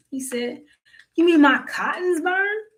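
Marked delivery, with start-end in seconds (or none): 1.1-2.6 a high, loud holler of disbelief. Acted. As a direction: yell it out, pitched way up. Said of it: "Old master hollered".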